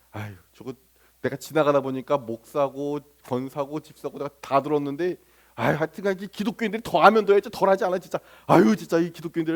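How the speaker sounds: acted disgruntled muttering under a sigh; inward grumbling. Waiter silently judging hypocritical church diners, disgruntled grumbling. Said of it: "마음속으로 온갖 욕을 하며".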